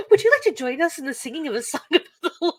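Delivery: quick, laughing cheerful invitation; cheerful movie quote. Retold or imitated. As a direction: rattle it off like an eager churchgoer.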